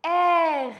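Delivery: French R, vibrating at the back of the tongue; gargled French R. Shown as a demonstration. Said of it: "Feel here the vibration".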